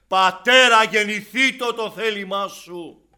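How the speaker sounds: loud, high, forceful sermon delivery; fiery preaching. Acted. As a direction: hammer the warning at the congregation.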